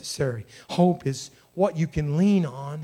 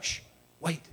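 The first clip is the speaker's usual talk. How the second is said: hushing; 9 dB quieter than usual. Acted. Believer silencing the enemy's talk, soft hushing. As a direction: quietly hush the enemy. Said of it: "you're just like".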